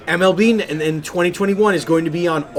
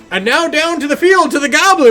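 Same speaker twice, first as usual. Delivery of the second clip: goblin announcer; 10 semitones higher, 4 dB louder than usual. Retold or imitated. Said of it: "this goblin creature".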